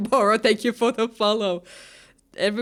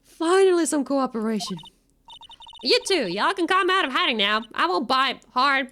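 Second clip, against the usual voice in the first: put-on Southern accent. Country gal coaxing the shy pair out with Southern accent. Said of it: "You think the accent is good?".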